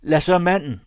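high, loud, urgent poacher; bargaining poacher. Acted. (højlydt, indtrængende krybskytte)

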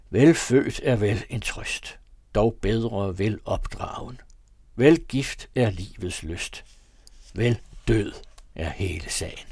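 slow recital with død in "Vel død" strongly stressed. A narrator's reading. Father reciting the old verse, heavy stress on død. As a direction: lean hard on død in "Vel død". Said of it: "en stærk betoning på det andet ord i den fjerde linje".

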